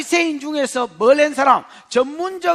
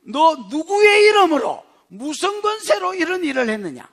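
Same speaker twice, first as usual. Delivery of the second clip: accusing question; 4 semitones higher than usual. Acted. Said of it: "이 사람이 묻습니다".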